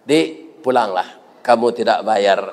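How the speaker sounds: low, measured kindly release; acted gentle reassurance. Doctor tells the patient to go home without paying, gently.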